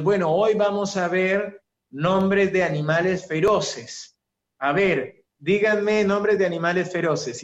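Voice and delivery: lightly voiced cheerful teacher to kids; a hint of a singsong kindergarten teacher; mild teacher voice addressing children; preschool teacher. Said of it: "la maestra de preescolar".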